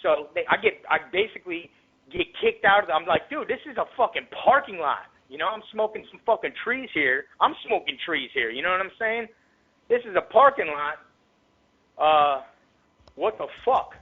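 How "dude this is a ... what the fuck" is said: incredulous protest. Retold or imitated. Protesting being kicked out.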